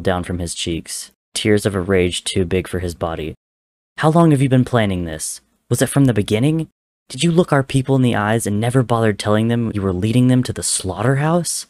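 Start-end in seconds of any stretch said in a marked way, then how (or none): 4.0-11.7 higher, louder, raging questions; furious accusation. Acted. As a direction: hurl every question at him, voice climbing. Tommy confronts betraying brother.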